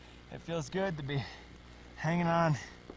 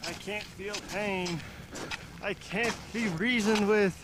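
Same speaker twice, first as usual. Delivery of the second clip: movie hero voice; 7 dB louder than usual. Acted. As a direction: deliver it like a relentless cyborg. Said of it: "Terminator-style movie line, acted".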